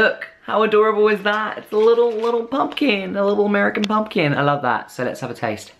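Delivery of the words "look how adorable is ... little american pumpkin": cutesy cooing. Real, not acted. Cooing over a tiny candy pumpkin.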